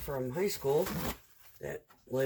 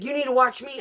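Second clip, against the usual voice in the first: imitating coworker; 10 semitones higher, 8 dB louder, faster than usual. Coworker's warning in quarrel.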